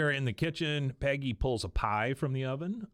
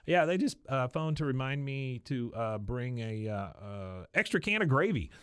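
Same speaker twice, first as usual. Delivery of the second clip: high, faltering cover-up voice; Luann; 5 semitones higher than usual. Acted. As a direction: stall in a high voice while inventing an excuse. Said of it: "She goes".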